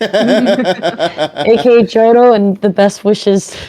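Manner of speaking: slow, laughing through it. Real, not acted. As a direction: chuckle while saying it. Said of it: "repeats phrase laughing".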